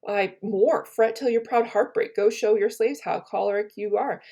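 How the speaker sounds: impassioned Shakespeare recital. Acted. Teacher reading Brutus's rebuke to the class, impassioned. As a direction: rouse him with the memory of Caesar.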